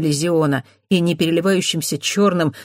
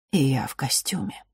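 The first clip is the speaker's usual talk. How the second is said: whispering; 4 dB quieter than usual. Acted. Masked director explains quietly.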